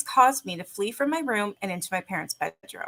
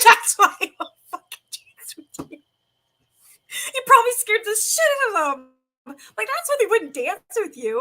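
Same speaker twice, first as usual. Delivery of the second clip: incredulous scolding; 12 semitones higher, 5 dB louder than usual. Retold or imitated. Retelling scolding her nephew.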